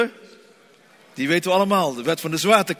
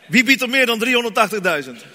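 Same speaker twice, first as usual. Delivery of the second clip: auctioneer; 4 semitones higher, 3 dB louder than usual. Pretend. Auctioning bids, raised voice.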